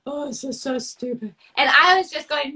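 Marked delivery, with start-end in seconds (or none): 0.1-1.3 mom dismissing. Retold or imitated. Daughter voicing mom who calls her own painting stupid, dismissive. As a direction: play her mother, deflated and dismissive.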